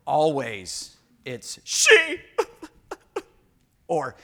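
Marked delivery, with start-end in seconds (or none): 1.3-2.2 squeaky high laughing shriek; mock blame. Pastor mocking a spouse who blames the other, laughing high. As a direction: point the finger with a laughing squeal.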